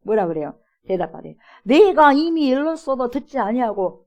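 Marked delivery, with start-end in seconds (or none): 1.6-4.0 exasperated, slow, higher and louder; irritated. Retold or imitated. Healed blind man fed up with the Pharisees, irritated. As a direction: let his annoyance show as he repeats himself. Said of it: "치료받았던 맹인이 짜증나는 거예요".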